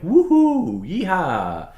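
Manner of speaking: high, loud whooping yell; silly whoops. Shown as a demonstration. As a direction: whoop it up like a cowboy. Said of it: "exaggerated sounds".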